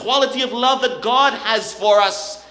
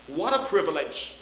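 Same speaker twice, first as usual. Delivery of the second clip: hushed awe; 7 semitones lower, 6 dB quieter than usual. Real, not acted. Awed aside.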